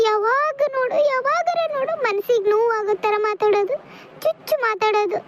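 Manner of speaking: tearful. Acted. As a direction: complain through tears about being hurt. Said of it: "ಅಳಾಕತ್ತೀಯ?". (ಅಳುತ್ತಾ ನೊಂದ ಧ್ವನಿಯಲ್ಲಿ)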